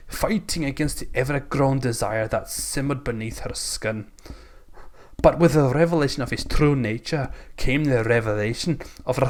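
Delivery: lightly put-on Scottish narration; comic Scottish storyteller; Scottish accent. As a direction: read the romance in a mock Scottish accent. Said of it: "Keep doing it in the accent".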